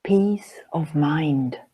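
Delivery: quoted reply, slow and understated; slow, simple statement; simple answer. Retold or imitated. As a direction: give the quoted answer simply, unhurried, with a falling end. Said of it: "He answered quite simply".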